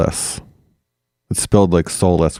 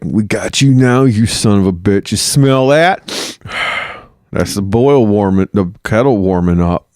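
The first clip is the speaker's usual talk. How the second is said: gloating farmer. Retold or imitated. Angry farmer gloating over the captured bishop, menacing. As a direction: taunt your captive.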